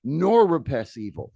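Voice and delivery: pompous bishop. Retold or imitated. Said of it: "This is one of the king's advisors".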